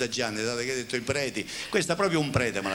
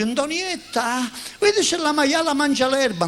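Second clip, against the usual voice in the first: calling out; 13 semitones higher, 4 dB louder than usual. Acted. Husband calls out to wife.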